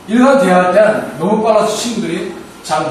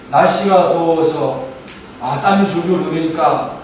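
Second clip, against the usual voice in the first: rambling run-on; slower than usual. Shown as a demonstration. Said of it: "이게 아닙니다".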